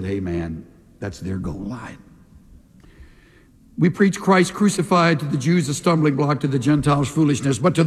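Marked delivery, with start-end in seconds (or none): 0.0-2.0 much lower and softer matter-of-fact news; low, quiet deadpan. Retold or imitated. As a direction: break the bad news dryly. Tackler tells Roy the truth.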